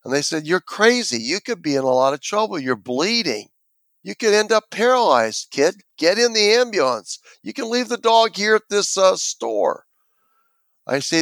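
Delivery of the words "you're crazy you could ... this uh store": higher-pitched imitation of an insistent paramedic; mock urgent pleading, pitch climbing as it goes; urgent insistence. Paramedic arguing with an injured kid to get in, retold urgent insistence.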